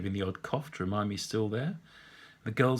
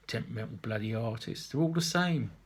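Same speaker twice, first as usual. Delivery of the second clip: put-on tutting old man. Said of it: "the old man tuts".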